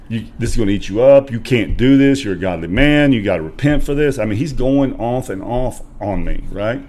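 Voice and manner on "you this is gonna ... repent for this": mild retold lecture. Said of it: "starts pounding on his steering wheel".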